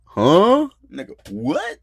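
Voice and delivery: high, loud startled "huh"; shocked. Retold or imitated. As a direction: blurt it out in disbelief. Startled at mom's unexpected request.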